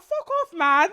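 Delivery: high, laughing wail of annoyance; mock hysterical outburst. Telling an ex to go away, mock hysterics. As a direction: send them off in a hammed-up meltdown. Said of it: "I was just like".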